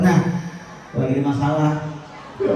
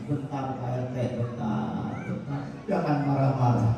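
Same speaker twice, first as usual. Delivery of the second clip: soft calming; 2 semitones lower, 7 dB quieter than usual. Retold or imitated. Old man calms the RT.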